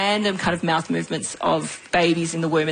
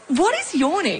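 high-pitched question; 10 semitones higher than usual. Acted. Rereading the question amused.

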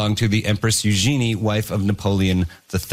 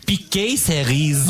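slow, drawn-out French accent; 4 semitones higher, slower than usual. Shown as a demonstration. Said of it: "Can you say cherry picker with a French accent?".

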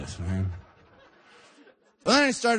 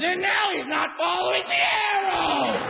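shrill lady shout. Retold or imitated. Old lady shopper scolding me, in a high mock shout. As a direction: squawk it like a scandalized busybody. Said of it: "And she goes".

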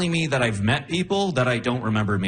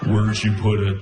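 low, creepy and a bit louder; creepy Buffalo Bill voice; 7 semitones lower, 3 dB louder than usual. Retold or imitated. Imitating girlfriend sounding like Buffalo Bill, low and creepy. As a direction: growl it like a creepy killer. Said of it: "Why do you sound like Buffalo Bill?".

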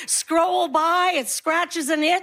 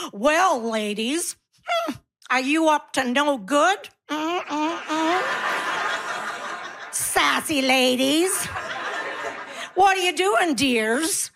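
sleazy flirt voice; slower than usual. Retold or imitated.

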